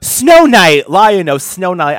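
Cheetara voice. Retold or imitated. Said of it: "And Cheetara".

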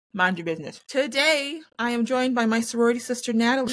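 ordinary delivery

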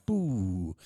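long falling "boo" of power dying; power-down noise. Retold or imitated. Telling how the mic cut out, imitated power-down noise. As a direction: imitate electrics cutting out.

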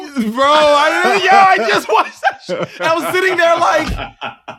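high, slow, laughing and loud; cracking up in exasperation; laughing outcry about the scene; laughing disbelief. Real, not acted.

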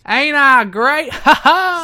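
loud, high, slow wrestler boast with a big laugh; hammed-up catchphrase and cackle; Jeff Jarrett. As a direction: crow it like a preening wrestler. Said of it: "impression of Jeff Jarrett".

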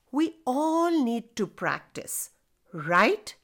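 put-on coaxing storyteller asking kids; reading to children. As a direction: ask the little listeners warmly. Addresses child listeners directly.

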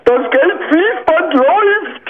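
high, hammed-up TV-shop pitch voice; infomercial. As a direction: sell it like a late-night infomercial. Mock ad shouting at callers.

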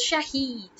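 "Shahid" as sha-HEED, long ee at the end; mispronounced Shahid. Shown as a demonstration. Querying the wrong version of the name, mispronounced Shahid. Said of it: "or it's not Shahid".

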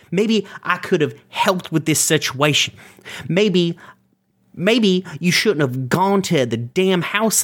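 high, heated shout at brother; shaking with anger. Acted. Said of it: "I'm so mad".

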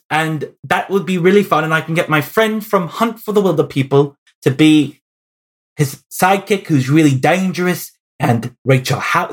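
badly faked New Zealand accent; keen, rambling pitch in mock New Zealand accent. Director listing friends to cast, in a bad New Zealand accent. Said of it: "That's my really bad New Zealand accent".

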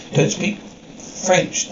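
slow, soft, nearly whispered jab; mocking echo. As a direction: slowly whisper her words back at her. Mockingly repeats her admission.

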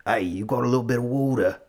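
hammed-up Philly accent; broad mock Philadelphia accent. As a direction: do a Philadelphia local saying "wooder". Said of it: "if they're from Philadelphia, they say".

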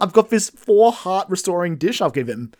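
high, loud, hopeful little man; hopeful Addison voice. Retold or imitated. Co-host voicing Addison waiting for the player, in high hopeful chirp.

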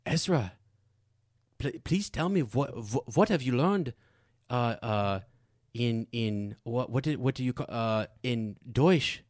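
a hint of her German-accented English, hesitant; imitating mother-in-law. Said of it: "now I know how to do it".

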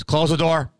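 imitating a terse demand to close up; mildly insistent imitated command; curt order. Hotel man ordering him to close the door, curtly. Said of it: "Like that".

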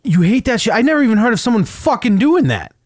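high-pitched incredulous outburst; can't believe anyone would do that; indignant disbelief. Real, not acted. Venting to coworkers about a stranger's nerve, high and incredulous.

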